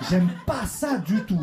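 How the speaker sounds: stretched out slowly, word by word; slow and drawn out. Shown as a demonstration. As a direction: drag out every word, playing offended. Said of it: "Tu me juges".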